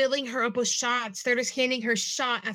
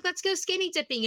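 put-on high drunk squeal; 9 semitones higher than usual.

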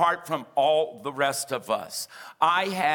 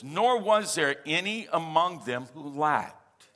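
slow reading. Shown as a demonstration. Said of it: "I'm gonna read it slowly".

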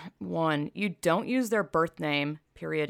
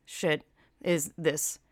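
whisper; much slower than usual. Real, not acted. Sarcastic aside, voice drops.

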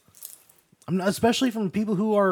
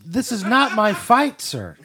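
slow, louder, raised-pitch refusal; mock-indignant, stretched-out objection; indignant protest; 3 semitones higher, 4 dB louder, slower than usual. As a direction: push back firmly, drawing it out. Player protests the octopus's request.

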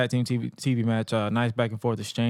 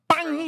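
gunshot sound. Retold or imitated. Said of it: "you have your speakers loud".

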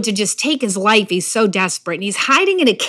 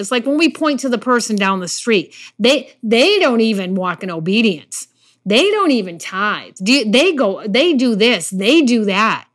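usual speaking voice

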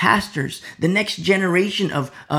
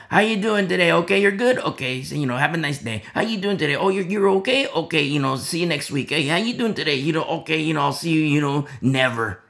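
lightly voiced breezy pastor brushing people off; a hint of a cheerful, hollow greeting; mock pastor rattling through his checklist of greetings; mock gimmicky pastor. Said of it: "It's not like a gimmick".

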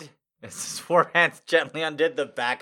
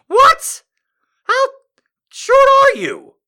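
very high, loud incredulous cry; 1 shocked disbelief; 13 dB louder, slower than usual. Real, not acted. Reader stunned by the pilot's shortness, high and loud. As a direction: shriek it in disbelief.

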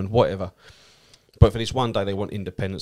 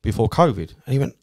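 usual speaking voice

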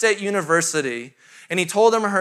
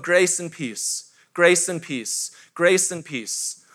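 soft mantra; 4 semitones lower, 4 dB quieter, much slower than usual. Acted. Repeating mantra softly, slowly.

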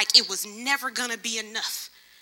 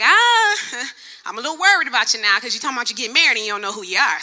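Pastor Jay; faster than usual. Retold or imitated. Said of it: "exactly how he said it".

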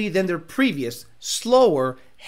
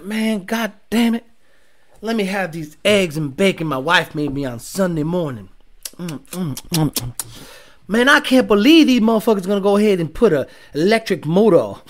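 lightly voiced accent, grumbling over breakfast; put-on Demonology accent; 2 semitones lower than usual. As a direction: imitate a disgruntled car guy's accent. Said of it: "why I went with that accent".

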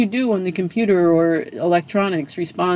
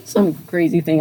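helpless giggle creeping into the words; laughing; 2 semitones higher than usual. Real, not acted. Telling of kids glued to gaming consoles, laughing. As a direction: talk through a laugh. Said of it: "I don't know why I'm laughing".

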